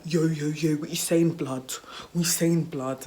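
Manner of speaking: loud start, dropping on "blood"; mock slangy greeting; imitated schoolkids' slang. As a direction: imitate street-talking school kids. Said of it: "I don't even talk like that".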